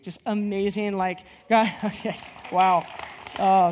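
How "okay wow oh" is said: real laughter breaking through the words; amused, chuckling through it; laughing. Real, not acted. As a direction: laugh at yourself and keep talking. Laughs at a slip mid-sermon.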